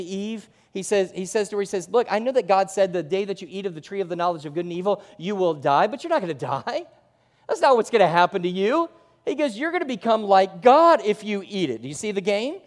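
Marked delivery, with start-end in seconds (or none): 1.9-11.8 louder, coaxing devil's pitch; voicing the devil. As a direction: sell the lie like a tempter. Devil's lie voiced to Eve.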